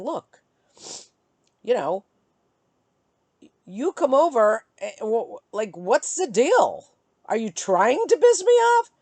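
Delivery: annoyed challenge, rising in pitch and volume; retold angry confrontation. Woman retelling her call to ex, mounting annoyance. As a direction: build from halting start to heated question. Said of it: "but I was screaming".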